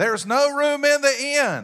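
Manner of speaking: put-on very high, loud shout in a Southern accent. Retelling the Bethlehem innkeeper turning away Mary and Joseph: retelling a yell, southern accent. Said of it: "in a good southern accent".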